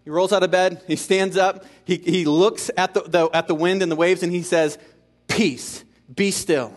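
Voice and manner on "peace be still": mildly firm command, spaced out; understated scolding, as to a child. Retold or imitated. Jesus to the wind and waves, mildly scolding. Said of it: "as if he's scolding a child".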